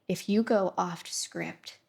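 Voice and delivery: slow mock-strict teacher; slow, lightly put-on teacher warning. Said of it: "one of those teachers that are like".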